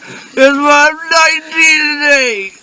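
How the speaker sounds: put-on loud, slow drunken declaration; slow drunk shout. Drunk guy knocking someone over, loud slow shout. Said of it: "fucking knocks him to the ground".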